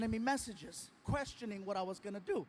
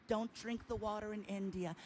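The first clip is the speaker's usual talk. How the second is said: put-on Indian accent; 4 dB quieter than usual. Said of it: "I love his accent".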